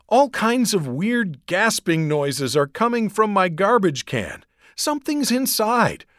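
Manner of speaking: put-on girl gabbling in fear about a monster; panicked rush. A narrator's reading. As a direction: babble it out in terror. Frightened Gabby on the phone.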